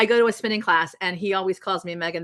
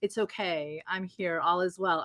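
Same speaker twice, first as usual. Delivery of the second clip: much softer, gentle and soothing; calm reassurance; 6 dB quieter than usual. Retold or imitated. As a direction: hush them like a calm inner voice. Voicing the calm inner self.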